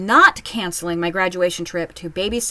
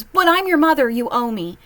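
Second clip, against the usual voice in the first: higher, louder guilt-tripping mom; mocking mom; 5 semitones higher, 4 dB louder than usual. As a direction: whine it like a demanding mother. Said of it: "my mom's even come out with".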